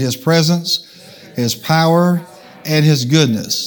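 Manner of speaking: phrase by phrase, pausing for the crowd; call-and-response. Shown as a demonstration. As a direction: lead the congregation to repeat each phrase. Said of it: "Say it".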